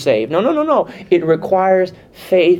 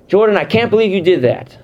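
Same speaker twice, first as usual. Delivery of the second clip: higher, louder, exasperated scolding; upset; 5 semitones higher, 3 dB louder than usual. Shown as a demonstration. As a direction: let the disbelief come out sharp. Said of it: "now you're thinking he's upset".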